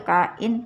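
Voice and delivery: kain split as ka-in; read in two syllables. Shown as a demonstration. Teacher showing a child how to read kain. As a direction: say kain as ka, then in. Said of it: "Baca jadi gitu".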